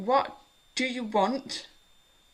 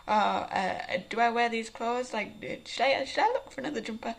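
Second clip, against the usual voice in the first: louder bursts of mock fretting; harried inner voice; 4 dB louder than usual. Vlogger mimicking her first thoughts on waking, harried. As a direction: act out a racing morning mind, thought after thought.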